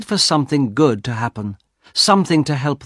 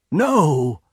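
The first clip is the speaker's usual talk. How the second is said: mild inward refusal, pitch raised; dreading thought; 4 semitones higher than usual. A narrator's reading. Husband draws hand from paw, dreading. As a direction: recoil in thought. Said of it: "he thought".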